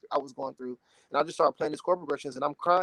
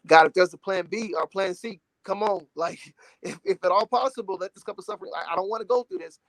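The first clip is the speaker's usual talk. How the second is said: higher, mildly pleading retelling; human pleading; 4 semitones higher, 3 dB louder than usual. Retold or imitated. Retelling Jesus begging God in the garden, pleading. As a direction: plead lightly for any way out. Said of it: "you see the humanity of Jesus".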